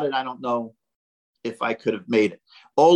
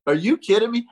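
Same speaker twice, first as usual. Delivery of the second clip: retold irritated question, a touch higher; mock annoyed; 7 semitones higher than usual. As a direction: imitate a teammate's light exasperation. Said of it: "you both were so pissed at me".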